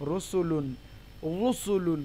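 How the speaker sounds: রুসুলুন with a thick rounded "ru"; heavy Ra. Shown as a demonstration. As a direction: start রুসুলুন on a full dark R. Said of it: "মোটা হবে".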